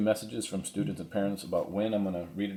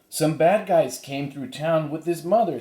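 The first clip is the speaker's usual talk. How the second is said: put-on higher eager girl's voice; voicing Annie; 8 semitones higher, 4 dB louder than usual. Annie tells the cowboy about the foal, higher girl's voice. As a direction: Annie explaining in a bright higher voice.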